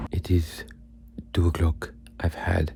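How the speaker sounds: hushed late-night whisper. Real, not acted. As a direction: breathe it out so nobody wakes.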